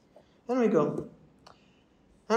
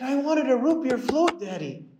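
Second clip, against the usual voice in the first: put-on whiny little girl; 12 semitones higher, 3 dB louder than usual. Daughter whining to her dad in the drive-thru, high and pleading. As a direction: play a sulky five-year-old. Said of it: "She said".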